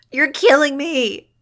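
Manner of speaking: high, drawn-out, loud shriek. A narrator's reading. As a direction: shriek it in agony. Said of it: "Iggy shrieked, hardly sounding human".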